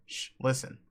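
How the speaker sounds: breathy hush; whispering. Acted. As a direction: whisper it urgently. Hushing friend to overhear.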